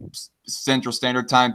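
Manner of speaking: slight stumble starting the phrase; real stutter. Real, not acted. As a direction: catch on the first sound. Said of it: "Yes, I know I'm stuttering".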